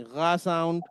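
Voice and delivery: गा said with a rough ɣ from the throat; throaty ga sound. Shown as a demonstration. Teacher drilling the German R in a class, throaty ga. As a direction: scrape the गा at the back of the throat. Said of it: "जो इसमें एक sound आ रहा है".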